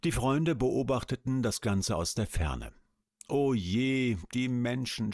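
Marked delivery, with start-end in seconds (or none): 3.3-5.1 groaning worm, a bit higher. Acted. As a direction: sigh it out with a groan. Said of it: "stöhnte August".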